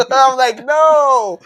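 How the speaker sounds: laughing high denial. Real, not acted. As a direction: squeal out the no through laughter. Laughing, raised voice denying.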